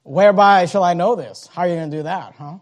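skeptical, challenging tone; critical doubt. Retold or imitated. Preacher voicing Zacharias doubting the angel, skeptical. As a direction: demand proof, doubting the angel. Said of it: "He's speaking critically".

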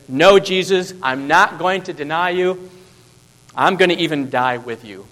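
a hint of brave Peter swearing loyalty; bold Peter. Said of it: "bold, courageous Peter".

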